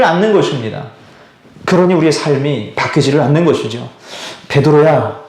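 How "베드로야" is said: God rebuking Peter. Acted. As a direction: speak as a patient God chiding a disciple, low and hushed. Pastor voices God speaking to Peter.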